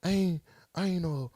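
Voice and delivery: high, rushed mock girlfriend in disbelief; imitating an upset girlfriend; mock girlfriend pleading. Girlfriend voiced in argument.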